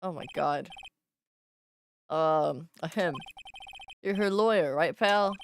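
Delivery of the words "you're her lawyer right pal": put-on Jersey accent drifting Australian; badly faked tough detective, Australian tinge; accent turning Australian. Detective checking with the lawyer, accent drifting Australian. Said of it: "it's turning Australian".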